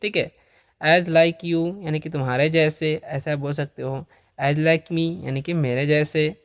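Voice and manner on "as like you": धीमा स्पष्ट उच्चारण. Shown as a demonstration. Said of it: "उदाहरण सिखाते हुए".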